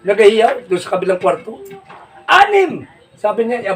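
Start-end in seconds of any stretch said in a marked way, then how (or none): 2.2-2.9 shouted number. Retold or imitated. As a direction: yell Anim! from the next room. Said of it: "may hiyaw ng hiyaw". (sigaw mula sa kabilang kwarto)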